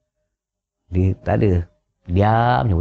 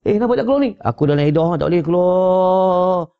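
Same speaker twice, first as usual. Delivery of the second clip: hammed-up stubborn widow; mock widow refusing; 7 semitones higher than usual. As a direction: play the foolish widow stuck in a burning house. Woman in mourning refuses to flee.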